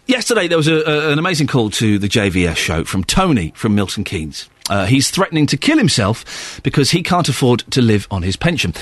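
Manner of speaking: measured radio presenter read; falling, serious bulletin delivery; news read. Real, not acted. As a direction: read the headlines seriously to listeners. Presenter reads programme menu and story intro.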